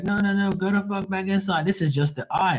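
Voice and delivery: high, urgent yelling to get back inside; urgent warning yell. Retold or imitated. Neighbours warning people outside in a high urgent yell.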